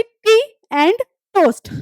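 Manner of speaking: slow, spaced टी AND TOAST; demonstrating T sound. Shown as a demonstration. Teacher asks whose sound is heard, slow demonstration. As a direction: say "टी and toast" word by word. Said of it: "किसका sound आ रहा है यहाँ पे".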